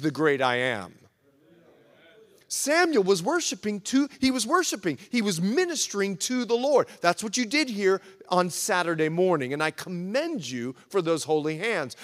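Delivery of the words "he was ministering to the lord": "to" leaned on firmly; emphatic "to" before "the Lord"; stress on "to". Shown as a demonstration. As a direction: make "to" the key word. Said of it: "I emphasize those two words".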